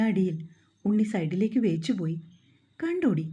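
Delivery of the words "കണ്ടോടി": gloating taunt. A narrator's reading. Ani gloats after hitting Unni.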